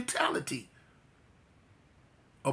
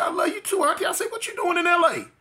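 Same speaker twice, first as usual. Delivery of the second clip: emotional shout; 13 semitones higher than usual. Retold or imitated. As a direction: cry out to her, moved and startled. Emotional reunion with aunt.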